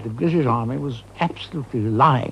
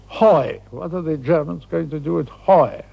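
Hoi blurted loud and high as a proud guess; triumphant mispronounced Hoi, louder and higher; 4 semitones higher, 4 dB louder than usual. Retold or imitated. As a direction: announce Hoi like you just cracked it. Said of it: "he said triumphantly".

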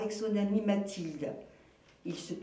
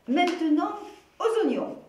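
higher, louder, bright call to move on; rally your friend to the next task; cheerful announcement; 9 semitones higher, 7 dB louder than usual. Acted. Mathilde leads on cheerfully.

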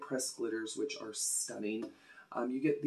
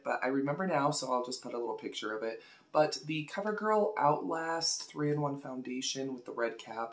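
ordinary delivery

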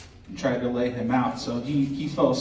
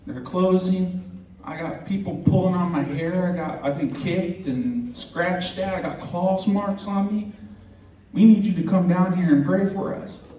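high-pitched, mildly panicked retelling; mock a distressed plea over the phone; lightly acted alarm, voice pitched up; imitating frantic caller; 6 semitones higher than usual. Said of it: "they're frantic on the other end".

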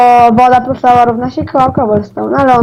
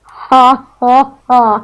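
spaced-out, deliberate fake "ha, ha, ha"; mock laugh; much slower than usual. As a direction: laugh drily at a friend's joke. Drętwy śmiech po żarcie kolegi. (udawany, drętwy śmiech)

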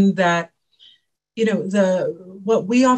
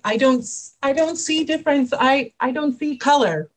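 higher, lightly mocking voice for a leader claiming not to see difference; mock colorblind leader; 6 semitones higher than usual. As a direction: gently parody a well-meaning manager. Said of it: "Don't pretend like".

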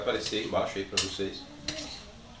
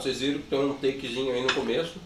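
talking with a mouthful; chewing while talking; mouth full. Real, not acted. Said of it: "eu falando de boca cheia".

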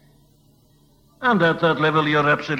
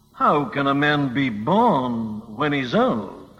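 sarcastic; 3 semitones lower, slower than usual. Acted. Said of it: "with a sarcastic smile upon his face".

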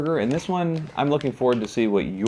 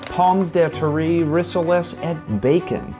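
mock French accent; 6 semitones higher, slower than usual. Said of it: "or as I like to call it".

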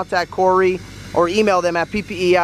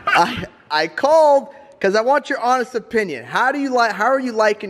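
amused, barely holding a laugh; laughing question; 4 semitones higher than usual. Real, not acted. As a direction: ask it through a chuckle. Laughing while asking.

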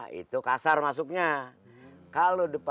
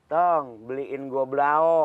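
imitating mom calling; 3 semitones higher, 3 dB louder than usual. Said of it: "emak kita dulu".

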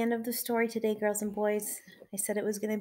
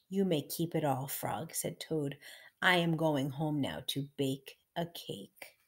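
measured, emphatic storybook narration; story reading for children. A narrator's reading. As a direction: read it aloud to little listeners.

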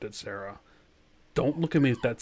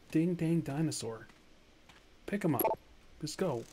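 hushed voice; 6 dB quieter than usual. Real, not acted. Gamer avoiding attracting the dinosaur, hushed. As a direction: keep it down, nearly whispering. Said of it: "Why am I whispering?".

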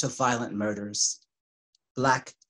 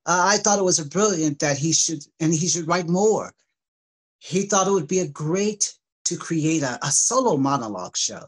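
quoting the father, higher, louder, a touch animated; lightly voiced father; 3 semitones higher, 4 dB louder, faster than usual. Father explaining his idea for son's monologue show, lightly voiced. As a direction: lift the quote slightly above your reading voice. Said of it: "Doug, his father, explained".

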